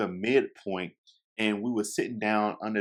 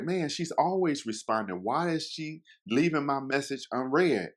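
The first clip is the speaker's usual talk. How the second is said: whiny confused; 5 semitones higher than usual. Retold or imitated. Confused about her unread message.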